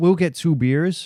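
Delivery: put-on curt, rude, blunt speech in an American accent. Speaker contrasts British and American manners, imitating a rude American. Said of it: "like the Americans would be like".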